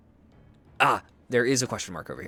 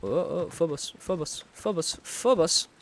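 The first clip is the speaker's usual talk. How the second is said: repeated rising calls of a pet's name, each one higher; calling the eagle; 8 semitones higher than usual. Real, not acted. Streamer calling his eagle Phobos, coaxing and rising. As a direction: call him back like a lost pet.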